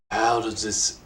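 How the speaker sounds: slow, put-on interviewer voice; second try at an impression, slowly; Tim Rogers impression. Interviewer retries his question, in a slow mimicked voice. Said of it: "I'll do it in the Tim Rogers voice".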